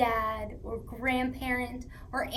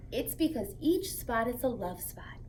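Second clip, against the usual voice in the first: whispered secret; storytime whisper. Acted. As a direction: let them in on a secret.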